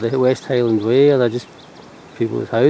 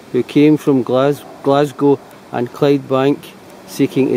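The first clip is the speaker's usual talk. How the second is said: reading aloud; 3 dB louder than usual. Shown as a demonstration. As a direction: read it out like an inscription. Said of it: "Okay, I'll read it".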